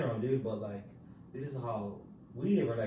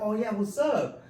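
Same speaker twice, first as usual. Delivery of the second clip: excited; 8 semitones higher, 6 dB louder than usual. Retold or imitated. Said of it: "I was excited".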